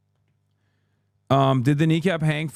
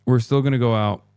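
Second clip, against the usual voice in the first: mild Roy Keane imitation; Roy Keane impression. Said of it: "You have to listen to Roy Keane".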